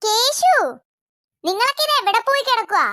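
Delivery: calling out. Acted. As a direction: shout the child's name across the house. Mother calls children from inside.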